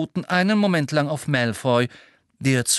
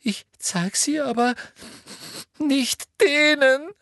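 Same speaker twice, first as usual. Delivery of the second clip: shrill. A narrator's reading. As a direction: shrilly refuse. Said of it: "sagte Hermine schrill".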